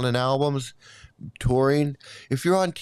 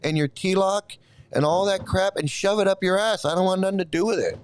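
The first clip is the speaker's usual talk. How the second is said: higher-pitched, indignant outburst; real irritation, pitched up without shouting; angry rant; 4 semitones higher than usual. Real, not acted. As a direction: tell the viewer off in exasperation. Irritated rant at a viewer's comment.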